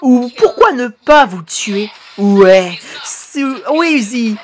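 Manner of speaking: lightly hammed-up cartoon dubbing; acted subtitle reading. Streamer voicing a teacher threatening the class, lightly theatrical read. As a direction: play stern teacher and defiant pupils in a reading voice.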